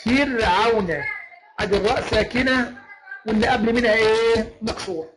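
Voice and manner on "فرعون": فرعون with a thin ر, no heaviness; example word. Shown as a demonstration. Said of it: "زي كلمة إيه".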